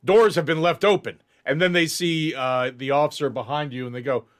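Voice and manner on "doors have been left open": urgent, higher and louder call; breathless guard raising the alarm. Acted. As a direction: guards halting mid-run, calling out in alarm. Guards reporting escape in alarm.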